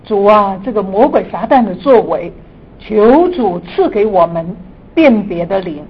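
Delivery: earnest prayer voice. Acted. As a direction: pray fervently, building to emphasis. Opening prayer before teaching.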